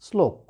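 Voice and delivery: শ্লোক begun with s, not sh; hissing s straight into the l of শ্লোক; dental S demo. Shown as a demonstration. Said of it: "আমরা বলি". (শ্লোক-এর শ দন্ত স-এর মতো উচ্চারণ)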